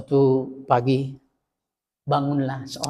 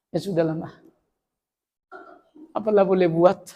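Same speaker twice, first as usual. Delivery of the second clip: lightly voiced resigned husband. Husband forgiving wife's spending, a hint of resignation. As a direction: sigh it out like a husband who has given up.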